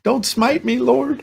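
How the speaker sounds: high-pitched playful begging; mock plea. Joking host begs God not to smack him, mock plea.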